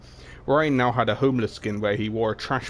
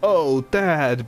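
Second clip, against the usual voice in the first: hammed-up Brigitte; 5 semitones higher, 5 dB louder than usual. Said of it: "Brigitte said".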